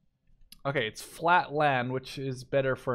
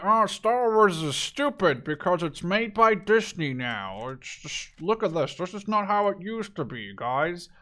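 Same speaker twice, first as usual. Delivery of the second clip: slower, sneering parody of a grumpy fan; mocking whiny fan; slower than usual. Vlogger parodying fans who bash Disney Star Wars, mocking. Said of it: "one of those people who jumps on the".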